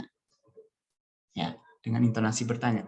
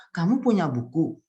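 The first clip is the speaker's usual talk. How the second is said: Kamu punya buku raised in pitch as a question; question intonation; 3 semitones higher, 4 dB louder than usual. Shown as a demonstration. Teacher shows Indonesian question tune, questioning intonation. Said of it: "intonasi bertanya seperti ini".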